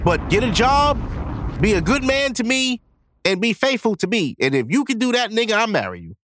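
women's demands. Retold or imitated. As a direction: lay out the wishes like a demanding girlfriend. Voicing women's wishes.

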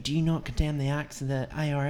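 lightly mimicked sectarian challenge, pitched high; high-pitched mock accusation; mock old geezer. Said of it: "you would swear they were like old geezers".

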